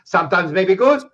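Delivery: Italian coach impression. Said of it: "He goes to Malacca".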